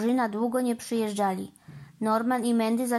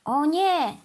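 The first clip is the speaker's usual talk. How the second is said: louder, higher cry of "oh no"; dismayed exclamation; 6 semitones higher, 5 dB louder than usual. A narrator's reading. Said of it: "zawołał Norman".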